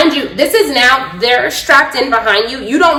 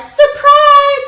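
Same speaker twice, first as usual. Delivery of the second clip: higher, loud cheerful call; mock surprise shout; 14 semitones higher, 4 dB louder than usual. Staff springing the surprise, shouting cheerfully. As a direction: shout it like a party reveal.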